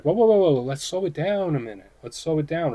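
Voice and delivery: rising alarmed whoa, then easing off. Pretend. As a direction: pull someone back before they rush in. Card energy voiced as cautioning.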